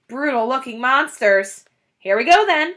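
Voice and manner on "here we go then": shouted. A narrator's reading. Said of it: "shouted Bean".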